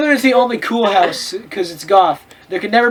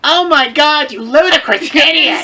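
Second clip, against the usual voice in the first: mock angry shout; 5 semitones higher than usual. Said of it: "They both shouted angrily".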